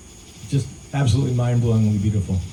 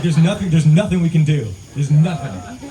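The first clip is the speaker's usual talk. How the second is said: laughing despair; 4 semitones higher, 5 dB louder than usual. Retold or imitated. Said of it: "I was like".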